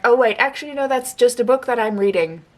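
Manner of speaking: a mock jolt of surprise at her own mix-up; sudden realisation. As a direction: snap back to reality, caught off guard. Realising the book isn't real.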